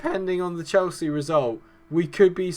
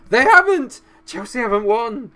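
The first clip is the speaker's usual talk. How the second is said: excited yell; 10 semitones higher, 10 dB louder than usual. Real, not acted. Rival fails to win.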